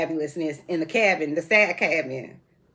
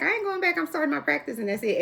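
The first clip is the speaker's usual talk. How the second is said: quoting a friend; 9 semitones higher than usual. Retold or imitated. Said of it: "she was like".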